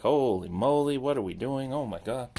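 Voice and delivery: loud startled holy moly; alarmed exclamation. Retold or imitated. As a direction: blurt it out, alarmed. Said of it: "and I was like".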